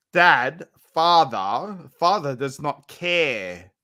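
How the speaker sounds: slow, solemn, overdone complaint about father; mock lament. Drunk streamer hamming up his uncaring father, slow mock lament. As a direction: intone "father" like a tragic monologue.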